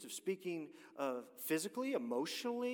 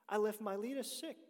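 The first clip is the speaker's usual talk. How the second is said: "left" lifted higher and leaned on; stress on left; 7 semitones higher than usual. Shown as a demonstration. Preacher quoting Paul, pushing the word "left". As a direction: hit "left" in "I left Miletus sick". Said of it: "Paul says".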